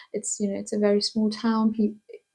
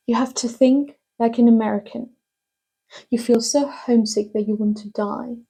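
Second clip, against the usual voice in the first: measured dramatic reading, pauses between thoughts; monologue reading. Acted. Actor reads Alice's advice to a young woman, measured monologue delivery. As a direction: deliver it as earnest advice, letting each thought land.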